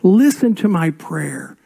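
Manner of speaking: slow, earnest reading of the psalm; gentle plea; scripture reading. Acted. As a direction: read the verse as a plea. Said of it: "Verse one".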